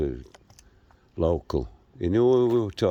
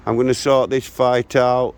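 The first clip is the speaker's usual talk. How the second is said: direct warning; 2 semitones higher than usual. Real, not acted. Vlogger addresses the young man who watches his channel, angry warning. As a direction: square up and warn him off.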